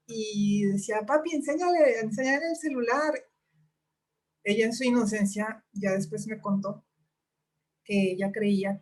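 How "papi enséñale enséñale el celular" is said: put-on higher, eager little girl voice; little girl asking. Daughter asking dad to show photos, eager high child voice. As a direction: plead brightly like a small child.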